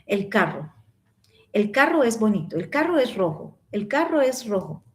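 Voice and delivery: "carro" and "rojo" with light, unforced r's; no exaggerated trill on "carro" or "rojo"; simple pronunciation. Shown as a demonstration. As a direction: keep the r in "carro" and "rojo" easy. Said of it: "lo más sencillo posible".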